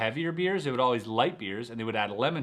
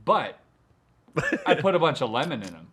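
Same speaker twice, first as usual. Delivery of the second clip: mock excuse; 5 semitones higher, 4 dB louder than usual. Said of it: "And I go".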